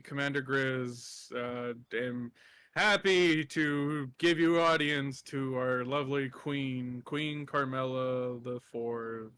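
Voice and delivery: slow formal introduction; a lightly voiced bear making a stiff royal introduction; pompous announcement. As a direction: announce the queen with grudging ceremony. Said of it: "he says".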